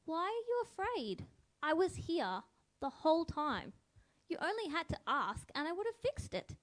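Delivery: lightly voiced kind parent comforting a frightened child; gentle, to an upset child. Jesus reassuring scared disciples as a gentle parent would. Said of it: "like you would talk to an upset young child".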